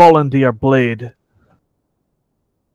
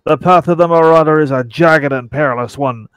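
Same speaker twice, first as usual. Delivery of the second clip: pirate voice. Acted. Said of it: "I really should have practiced the pirate voice".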